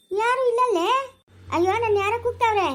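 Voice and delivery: high, loud and strange, like a spirit speaking; a possessed girl wailing who is calling her; possessed cry. Acted. Possessed girl asks who calls.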